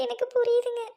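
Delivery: tearful, trembling confession; a wife crying to her husband that she panicked; shaken crying. Acted. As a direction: sob out that she was scared. Wife admits her fault, shaken.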